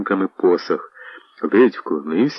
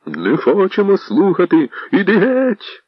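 angry shout; 10 semitones higher than usual. Acted. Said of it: "гнівні вигуки".

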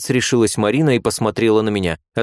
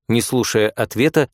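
usual speaking voice

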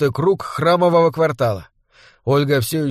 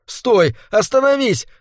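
angry shout; 9 semitones higher than usual. A narrator's reading. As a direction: yell at mother to stop and go back. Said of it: "кричал он, еле сдерживая злые слёзы".

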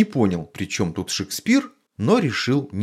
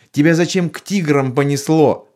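a stern wife's sharp question, a bit raised; 7 semitones higher, 5 dB louder than usual. A narrator's reading. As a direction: scold him with a firm, stern edge. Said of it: "строго спросила мама".

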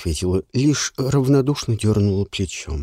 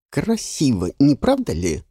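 ingratiating voice; 3 semitones higher than usual. Acted. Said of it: "вкрадчивый голос нотариуса".

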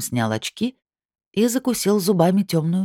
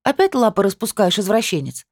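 angry accusation; 6 semitones higher than usual. Acted. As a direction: snap the accusation.

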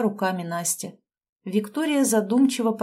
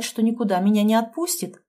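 usual speaking voice

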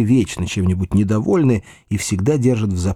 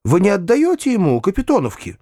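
raised, eager exclamation; almost delighted, higher-pitched questioning; near delight; 9 semitones higher than usual. A narrator's reading. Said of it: "вскричал я почти в восторге".

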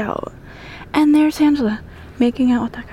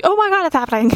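high, sudden alarmed gasp; startled panic; 9 semitones higher, faster than usual. Retold or imitated. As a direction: realize the earthquake is here. Bunk shaking in earthquake.

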